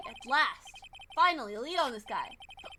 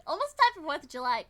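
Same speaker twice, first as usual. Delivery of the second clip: talking through hiccups; hiccuping between words. Real, not acted. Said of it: "God, my hiccups will not go".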